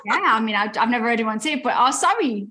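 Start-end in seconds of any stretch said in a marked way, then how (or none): 1.8-2.5 demonstrated Geordie "sorry"; Geordie accent. Shown as a demonstration. Guest showing how she would say it, Geordie accent. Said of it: "I would say".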